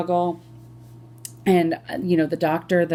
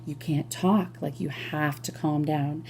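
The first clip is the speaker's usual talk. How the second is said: softer and softer soothing; calming; 3 dB quieter than usual. Retold or imitated. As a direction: gently settle a scared patient. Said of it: "the nurse is trying to calm me down".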